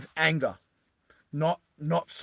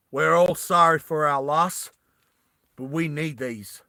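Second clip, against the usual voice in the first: put-on Roy, southern accent; 4 dB louder than usual. Roy excuses taking the dead man's supplies, southern accent. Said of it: "in his southern accent".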